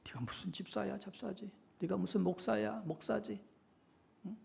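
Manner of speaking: hushed, half-whispered taunting accusation; Satan's whisper. Acted. Satan accusing believers who keep sinning, whispered. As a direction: whisper it like an insidious accuser, very soft. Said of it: "속삭여요".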